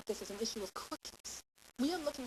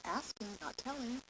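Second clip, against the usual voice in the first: short cue; 3 semitones higher than usual. Shown as a demonstration. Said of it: "which is a little short cue".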